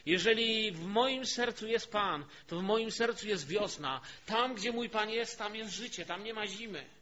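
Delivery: impassioned preaching. Acted. Preacher explains a beloved spring song to the congregation, impassioned preaching.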